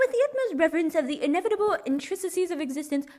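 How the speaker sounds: high, grandly florid mock eloquence; pompous orator. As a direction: orate like a pompous scholar. Mock-eloquent speech over hummed classical music.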